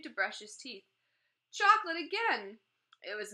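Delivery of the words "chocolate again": high, loud burst of delight; delighted surprise. A narrator's reading. Boy tasting chocolate toothpaste, thrilled loud exclamation.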